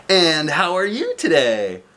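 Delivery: lightly voiced jolly man, slow greeting; cheery Mister Happy. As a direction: greet her like a beaming friend.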